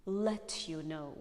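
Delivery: slow "let you know" with a crisp T; "let you" as "let-yoo"; British released T. Shown as a demonstration. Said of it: "prefer to release again this T".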